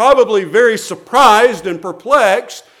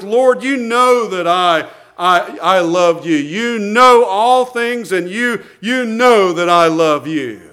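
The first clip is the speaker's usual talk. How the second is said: worked up. Acted. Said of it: "gets worked up".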